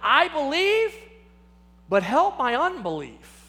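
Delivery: a desperate father crying out. Retold or imitated. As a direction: call out to him in need. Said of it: "he cries out and he says".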